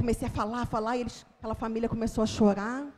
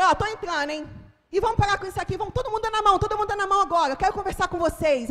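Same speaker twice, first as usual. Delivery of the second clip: taking charge; 8 semitones higher, 4 dB louder, much faster than usual. Retold or imitated. Taking charge inside the house.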